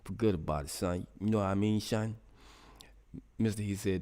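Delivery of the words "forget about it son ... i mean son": punchy mock New York accent; New York imitation. Streamer showing off his imitation, mock New York accent. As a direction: play the New York tough talker, landing on "son". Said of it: "That's my New York imitation".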